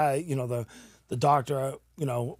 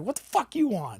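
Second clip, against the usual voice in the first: retold anger; 7 semitones higher than usual. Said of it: "but I was, like, mad".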